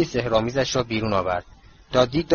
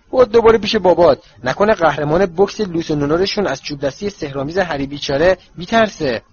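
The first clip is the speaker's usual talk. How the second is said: mocking; 4 semitones higher, 4 dB louder than usual. Harry mocking Dudley.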